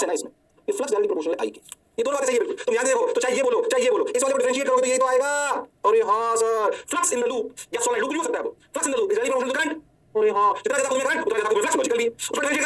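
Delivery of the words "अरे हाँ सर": lightly mimicked students, held and drawn out; chorused student agreement. Teacher voicing students after explaining both forms, mock chorused agreement. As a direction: play a class agreeing, vowels stretched.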